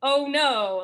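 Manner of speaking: slow, flat robotic delivery. Retold or imitated. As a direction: read it like a bored robot. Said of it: "like, robotic".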